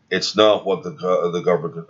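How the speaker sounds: stumbling over the words; stuttering. Real, not acted. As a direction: trip over the start of the quote. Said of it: "Excuse me, I'm stuttering".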